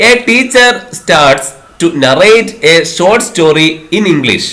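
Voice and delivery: very slow, careful question dictation; slow classroom question reading; exam question reading. Acted. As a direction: read it out word by word for the class. Reads exam question slowly.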